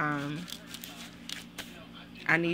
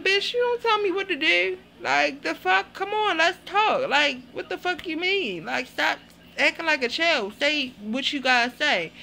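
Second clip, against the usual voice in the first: much higher, louder, put-on Scott voice; Scott's loud outburst; 8 semitones higher, 4 dB louder than usual. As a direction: play Scott loud and indignant. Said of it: "Scott like".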